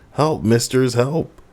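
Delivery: high mock cry for help; yelling at windows. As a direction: call up to the windows, playing the victim. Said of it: "yelling at the windows".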